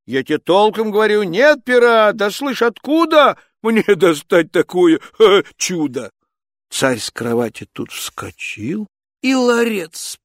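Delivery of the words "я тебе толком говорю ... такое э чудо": flustered Ivan. Acted.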